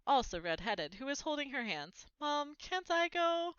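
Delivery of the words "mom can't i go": put-on high, slow whiny child begging; pleading little girl. A narrator's reading. Little Ginny begging her mother to let her go. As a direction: beg like a little girl left behind.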